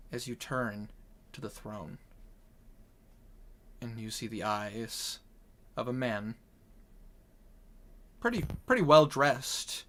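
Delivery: slow, measured reveal in a hushed tone; game master's scene setting. Acted. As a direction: narrate it slowly, pausing between details.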